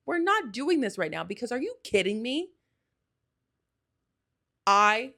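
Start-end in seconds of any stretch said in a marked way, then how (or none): 0.1-1.2 firmer refusal. Retold or imitated. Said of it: "I said".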